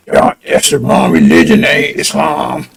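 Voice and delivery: low, breathless mocking murmur; mock know-it-all. Mocking those who suddenly know everything, in a low hushed sneer.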